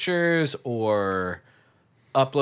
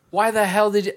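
higher, louder mock outrage; exasperated retort; 10 semitones higher, 5 dB louder, faster than usual. Mom struggling with the alarm code, retold exasperation. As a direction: snap back as the pranked mom. Retells Mom's reaction to prank.

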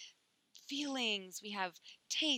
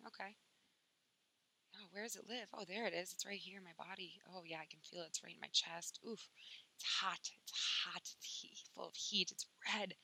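soft inward noticing; 3 dB quieter than usual. Shown as a demonstration. Modeling quiet body awareness.

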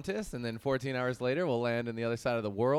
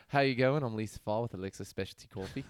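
Australian impression. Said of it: "Did I sound like her".

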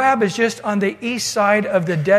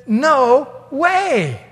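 loud, higher voice of God saying no; God's firm refusal; 5 semitones higher, 4 dB louder than usual. Acted. God flatly refuses Balaam.

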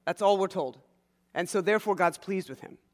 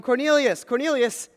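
calling a name loudly, a little higher; angel calling out; 6 semitones higher, 5 dB louder than usual. Acted. Angel calling out to Cornelius in a vision, raised voice. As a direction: call him like an angel from afar.

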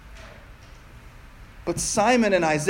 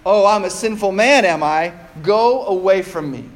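haughty. Retold or imitated. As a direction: sneer it back at God. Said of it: "have learned to be haughty".

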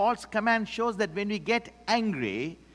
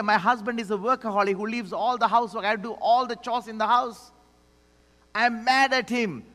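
fast, higher, louder griping; mock complaining wife; 4 semitones higher, 4 dB louder than usual. Pastor playing a churchgoer complaining about her husband: fast, loud griping. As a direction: rattle off the grievances. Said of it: "And you may say".

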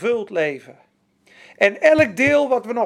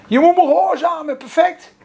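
louder, higher commanding tone; stern demanding master; 6 semitones higher, 7 dB louder than usual. Retold or imitated. Imagined strict God demanding obedience, loud and higher. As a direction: bark the order like a strict boss.

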